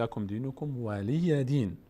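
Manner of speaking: slow, careful "ولی دین"; teacher's model reading of "ولی دین"; careful pronunciation demo. Shown as a demonstration. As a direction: articulate "ولی" clearly with its long vowel. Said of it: "دقت بکنید".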